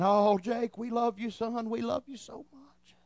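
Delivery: soft, tearful words fading to a whisper. Retold or imitated. Parents hug their found son, softly and tearfully. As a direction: murmur it through tears. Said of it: "We're crying".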